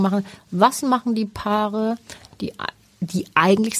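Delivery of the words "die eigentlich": eigentlich set apart after a pause, deliberately emphasized; stress on eigentlich. Real, not acted. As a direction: lean on the word "eigentlich". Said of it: "extra mit Betonung auf eigentlich".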